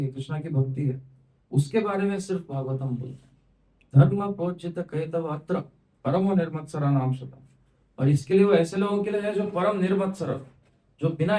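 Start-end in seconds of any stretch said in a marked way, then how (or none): 4.0-7.4 verse recitation. Acted.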